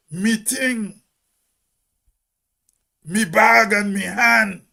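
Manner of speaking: "me" said for "my" in "Me thing, me bag and me hand"; young people's dialect. Retold or imitated. Hermitage man quotes the young people back from school, dialect "me". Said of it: "when they come back up, they say".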